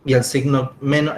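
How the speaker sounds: talking around a candy; chewing while talking. Real, not acted. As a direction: speak with candy in mouth. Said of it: "estoy comiendo un caramelo".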